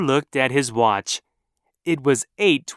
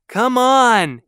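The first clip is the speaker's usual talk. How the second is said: impatient shout; 9 semitones higher, 5 dB louder than usual. Acted. Honking at slow traffic.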